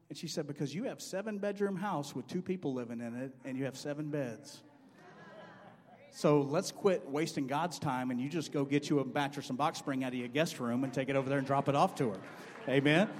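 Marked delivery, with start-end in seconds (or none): 0.4-12.2 bold rebuke. Retold or imitated. Joyce Myers telling the rich woman off, firmly. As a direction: lay it on the line, no excuses. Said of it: "that was pretty bold".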